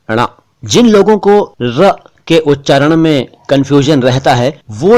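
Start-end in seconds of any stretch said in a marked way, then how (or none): 0.1-0.3 ण as a nasal retroflex flap; lightly nasal ण. Shown as a demonstration. Teacher repeating the sound, slightly nasal ण. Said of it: "हल्का सा nasal".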